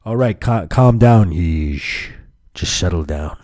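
put-on voice dropping low; crazy caller voice. Caller telling customer to calm down, low put-on voice. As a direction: play a disguised caller telling someone off. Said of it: "in that voice".

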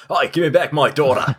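put-on Aussie accent for a movie line; attempted Australian accent. Shown as a demonstration. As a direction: have a go at a broad Australian accent. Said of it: "let me hear your best Australian accent".

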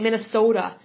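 lightly imitated Minnesota accent, long O. Host fondly imitating listeners from the state, light Minnesota accent. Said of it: "I love how you guys say your".

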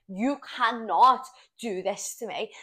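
slow, emphatic retold protest; imitating an indignant confrontation; acted protest. Acts out her confronting him.

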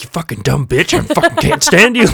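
retelling a rant at the phone, mildly; mock yelling at Siri. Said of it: "I finally start yelling".

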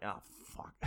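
breathy whisper of sheepish dismay; sheepish whispered curse. Retold or imitated. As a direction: whisper it, caught out. Finding the lost wallet.

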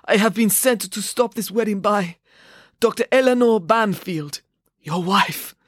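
high, exhausted announcement in gasps; breathless. A narrator's reading. Exhausted woman revealing who sent her, breathless. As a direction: push out the big news while out of breath. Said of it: "said the woman between panting breaths".

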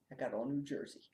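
ordinary talk

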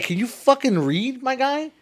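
mock exasperation at a mispronouncer; exasperated retort. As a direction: act out snapping at someone who can't read. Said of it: "And I just like".

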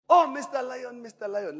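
pleading antelope. Acted. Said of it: "started to plead for its life".

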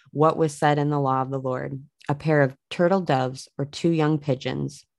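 measured, even read-aloud of a Bible story; understated narration of scripture. Acted. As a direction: read the verses clearly, phrase by phrase.

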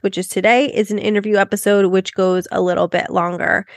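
stuffy, blocked-nose voice; nasal voice. Real, not acted. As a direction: talk through a head cold. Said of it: "excuse my nasally tone".

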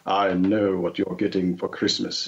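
mock-solemn character voice; villain impression. Villain teasing about Christmas presents, character impression. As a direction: deliver it as an ominous taunt.

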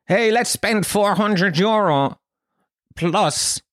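lightly mock an enthusiastic middle-class buyer, drawn out; eager barbecue buyer.

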